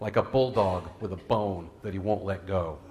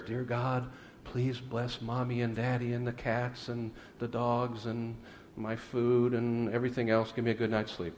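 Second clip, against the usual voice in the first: soft bedtime prayer; 8 dB quieter than usual. Retold or imitated. Little boy praying by his bed with family, softly. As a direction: imitate a little boy quietly saying prayers. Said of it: "softly saying his prayers".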